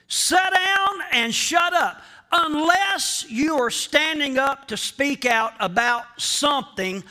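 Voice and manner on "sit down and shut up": mock command. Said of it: "Our culture today says".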